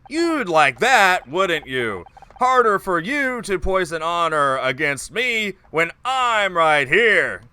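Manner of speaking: slow, hammy over-emphasis; lightly voiced bad actor. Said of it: "this bad actor voice".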